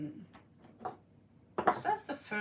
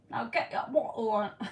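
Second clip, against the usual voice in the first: British accent attempt; faster than usual. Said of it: "Can you do more British accent".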